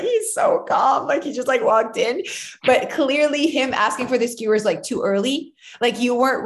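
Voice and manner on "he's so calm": high slow shouted mock exclamation; mock exclaim. Friend exclaiming about Neil, high slow mock shout. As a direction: cry it out much higher, drawn out. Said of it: "I'm like".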